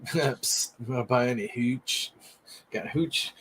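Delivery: hushed bootlegger pitch; secretive raspy sales murmur. Pretend. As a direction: murmur like selling hooch on the sly. Secretive hooch seller bit.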